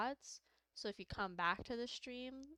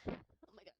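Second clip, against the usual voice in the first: out of breath; 6 semitones higher, 4 dB quieter, slower than usual. Real, not acted. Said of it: "I'm, like, out of breath".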